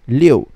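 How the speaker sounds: Liu as lee-oh-oo, loud and falling. Shown as a demonstration. Teacher recapping number six, Liu with added o, falling. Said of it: "it will become L I O U".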